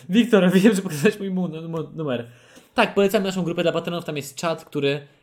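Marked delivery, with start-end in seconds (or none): 0.1-2.3 louder mock reproach, hammed-up; playful accusing tone. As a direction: throw it at him like an accusation. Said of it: "ten wyrzut".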